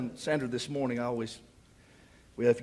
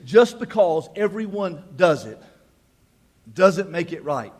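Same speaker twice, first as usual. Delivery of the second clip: a touch of a stern mama, slow and emphatic; 8 dB louder, slower than usual. Acted. Preacher sounding like his mama, slow and emphatic. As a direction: lecture it slowly like an old mother. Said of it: "I sound like my mama".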